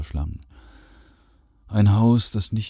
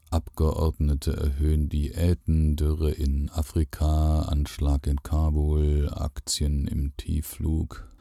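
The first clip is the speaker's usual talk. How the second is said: headline reading; slower than usual. A narrator's reading.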